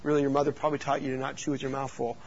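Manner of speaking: mildly imitated quiet scolding; lightly acted, low-key lecturing; typical disapproving adult. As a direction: softly mimic a proper grown-up's reminder. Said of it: "I'm not typical sitting there going".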